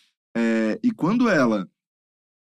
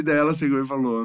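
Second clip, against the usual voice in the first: normal talking voice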